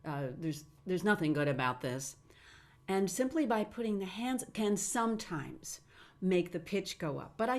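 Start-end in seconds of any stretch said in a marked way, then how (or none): 0.1-2.2 low monotone. Shown as a demonstration. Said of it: "if they tend to talk like that".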